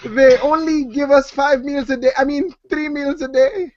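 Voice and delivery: high-pitched put-on Muslim accent; mock Muslim accent. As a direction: play a captive in a hammed-up Muslim accent. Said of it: "that was my best Muslim accent".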